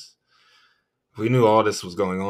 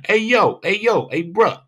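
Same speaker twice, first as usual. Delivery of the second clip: mock bro yell; 9 semitones higher, 7 dB louder than usual. Mocking a bro voice.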